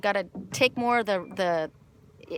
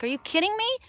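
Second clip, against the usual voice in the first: retold exasperation; 12 semitones higher than usual. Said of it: "I was so mad".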